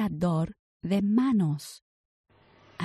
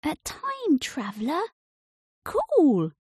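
put-on higher, eager young boy; boy's voice; 8 semitones higher than usual. A narrator's reading. Boy meeting the inventor, higher and eager. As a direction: sound like an impressed kid. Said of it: "said the boy".

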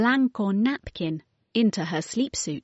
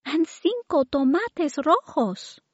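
put-on little girl voice; 9 semitones higher than usual. A narrator's reading. Mary speaks.

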